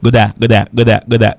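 Good a- linked, d carried onto a; linking drill. Shown as a demonstration. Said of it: "pour qu'à faire liaison".

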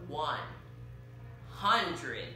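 slow, loud dramatic reveal; drawn-out reveal. Acted. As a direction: stretch it out for the big reveal. Big reveal of subscriber count.

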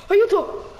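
high loud laughing yelp for help; laughing cry for help. Real, not acted. Panico nel gioco, ridendo. (grido d'aiuto ridendo)

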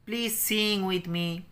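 very slow English, each word drawn out; slow reading. Shown as a demonstration. Teacher reads the English line very slowly to children. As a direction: read it out slowly for the class. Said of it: "with me মানে আমার সঙ্গে গাও".

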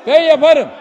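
defiant angry shout; real angry declaration. Real, not acted. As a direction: insist on it angrily. Heated council row.

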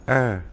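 "er" pronounced like Chinese èr; "er" read the Mandarin way; Mandarin two. Shown as a demonstration. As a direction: say "er" as Mandarin èr, falling tone. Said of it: "Hai đọc là".

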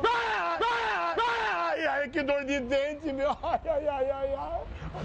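high moaning in pain; toothache. Pretend. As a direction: groan like a throbbing tooth. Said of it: "Que eu tô com dor de dente".

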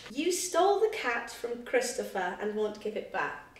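slow put-on British accent. Shown as a demonstration. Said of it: "Imagine if I spoke like this".

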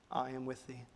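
very soft, barely voiced; whispered. Preacher voicing God's reassurance to the listeners, whispered. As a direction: whisper it like a comfort. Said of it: "God will whisper".

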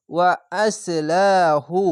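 ওয়া আসলাহু drawn out slowly; slow recitation. Shown as a demonstration. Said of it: "এক আলিফ টেনে পড়বেন".

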